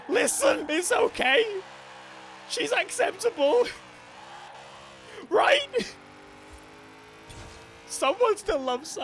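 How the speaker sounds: very high, loud soothing to the car; mock consoling voice. Streamer consoling the ugly car, in a very high loud mock-soothing voice. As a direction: comfort the car in a hammed-up sweet voice.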